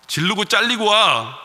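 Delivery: loud, high, slow imitated wife's command; forceful command. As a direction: belt out the wife's blunt dare. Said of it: "아주 강렬하게 한마디를 했습니다". (아내가 남편에게 강하게 외치는 말투)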